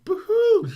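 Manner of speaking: hammed-up imitation of a man crying by a fence; mock sobbing. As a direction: wail "Boo-hoo" like an overgrown baby. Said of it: "squatting by a chain link fence going".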